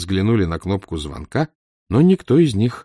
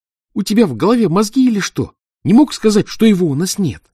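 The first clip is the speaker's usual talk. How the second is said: higher, louder furious reproach; angry near tears; 12 semitones higher, 6 dB louder than usual. A narrator's reading. Dudkin scolding the narrator about the phone call, angry. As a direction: shout at him, close to tears from rage. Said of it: "чуть не заплакал от злости".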